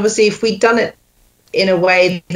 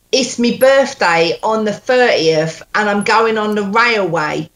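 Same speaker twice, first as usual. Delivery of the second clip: put-on Cockney accent. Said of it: "she has to do a Cockney accent".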